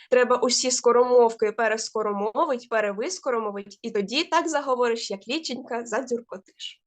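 careful, steady first read of a tongue twister. Shown as a demonstration. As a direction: take it slowly, word by word. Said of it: "тільки я трошечки повільніше".

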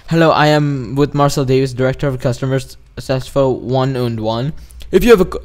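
put-on Indian accent reading; mock Indian-accented speaker. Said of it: "I'm doing an Indian accent".

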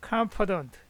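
"confident" with the stress on the first syllable, CON-fident. Shown as a demonstration. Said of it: "액센트가 칸에 있습니다".

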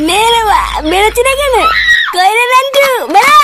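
calling out. Acted. Calling friend out at night.

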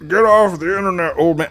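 high, loud mocking jeer; mocking commenter. Quoting a rude commenter, high mocking jeer. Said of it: "the comments that I used to get offended about".

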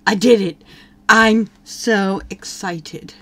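voicing the boy's delight, drawn out; mock sim boy. Player voicing the sim boy's joy, slow and mock-excited. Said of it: "He's like".

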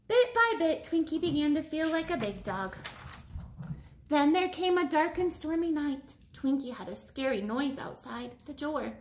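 lively storybook read-aloud; animated picture-book voice; reading to children. Acted. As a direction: read it to a class of kids.

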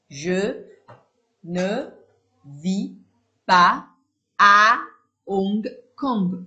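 each word said alone with a pause after it; "Je ne vis pas à Hong Kong" slowly spelled out, pas and à punched loud. Shown as a demonstration. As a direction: dictate one word at a time. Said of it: "word by word dictation".

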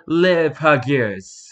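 slow, drawn-out French "Les Pagures"; French pronunciation. Shown as a demonstration. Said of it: "I'm not speaking in a French enough accent".

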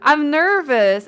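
loud, high mock-tearful plea; hammed-up nervous whine. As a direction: play up first-stream nerves, nearly wailing. Mock-confesses to chat's nervous accusation.

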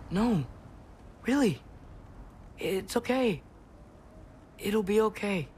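high, tender comforting; soothing. Acted. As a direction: gently coax a worried dog in a lifted voice. Soothing the dogs before leaving.

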